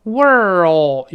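"World" with curled r swelling into an oh sound; audible dark l. Shown as a demonstration. Teacher correcting the misreading, strong dark l in "World". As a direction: bring out the oh-like l in "World". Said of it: "有个哦".

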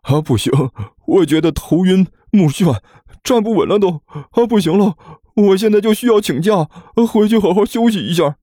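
high, woozy complaint; dizzy whining. Acted. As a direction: plead illness to get away, hammed-up. Feigning dizziness to escape. (哼哼唧唧地装头晕)

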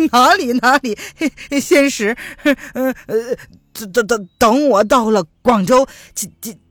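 stumbling over each word, scared; frightened stammering plea. Acted. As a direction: stammer and beg in fear. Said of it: "他哆哆嗦嗦地说". (结结巴巴地害怕求饶)

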